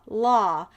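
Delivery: "la" run together and drawn out; teacher demonstrating a blended "la"; blending two sounds. Shown as a demonstration. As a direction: blend L and short O into one held "la". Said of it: "blend the first two letters".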